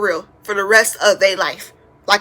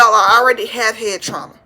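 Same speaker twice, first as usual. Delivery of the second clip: normal talking voice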